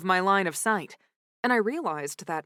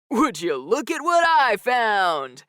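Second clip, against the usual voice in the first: calling out; 3 semitones higher, 5 dB louder, slower than usual. A narrator's reading. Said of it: "he called to the crowd".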